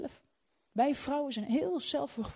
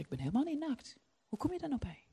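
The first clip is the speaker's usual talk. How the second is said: mock denial; 2 semitones higher, 5 dB quieter, faster than usual. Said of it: "En dan zeg ik".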